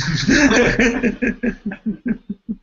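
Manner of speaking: high burst of laughter; amused laugh; real laugh. Real, not acted. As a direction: laugh at the absurdity. Laughs at own joke.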